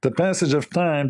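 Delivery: mocking nasal politician voice; put-on nasal parody; Kamala Harris. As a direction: say "passage of time" through the nose. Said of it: "she speaks from her nose".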